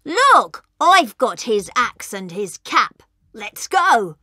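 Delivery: high-pitched cub calling out; shouting. Acted. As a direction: call to your brothers in a high wolf-cub voice. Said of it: "The oldest little wolf shouted".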